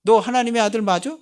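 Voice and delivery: worldly people taunting a Christian, loud and jeering; taunting challenge. Retold or imitated. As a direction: needle the Christian, scoffing. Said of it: "내가 볼 때는 기독교인들".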